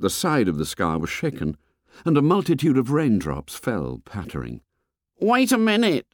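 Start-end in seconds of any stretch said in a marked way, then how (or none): 5.2-6.1 put-on high, calling boy's voice. A narrator's reading. A boy calls to a stranger through the jungle, high and eager. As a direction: shout for attention like a small boy. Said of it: "the voice said".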